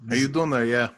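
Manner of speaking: lightly voiced movie buddy; Sue. Co-host echoing the Sue impression, playful mock accent. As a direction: join in on a half-serious character imitation. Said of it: "he kinda talks like this".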